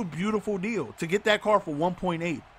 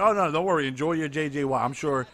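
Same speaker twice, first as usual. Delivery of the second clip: sarcastic; 6 semitones lower than usual. Retold or imitated. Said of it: "I started being sarcastic".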